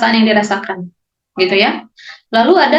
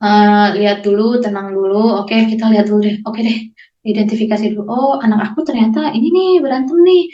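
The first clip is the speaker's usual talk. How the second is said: calm grounding demo; 3 semitones lower than usual. Shown as a demonstration. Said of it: "bisa untuk identifikasi atau grounding".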